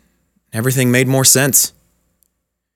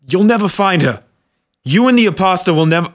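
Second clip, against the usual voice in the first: put-on defiant old man; 7 semitones higher than usual.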